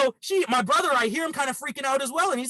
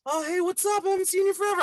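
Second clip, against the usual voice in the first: high-pitched, over-friendly mock hello; hammed-up tipsy greeting, pitched way up; drunken greeting; 10 semitones higher, faster than usual. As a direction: imitate a drunk gushing at an old friend. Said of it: "give her a drunk, naked hug".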